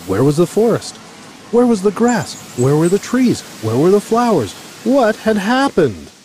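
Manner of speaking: rising, high astonished questions; bewildered questioning. A narrator's reading. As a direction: read as dismayed disbelief. Bear's bewildered questions on waking.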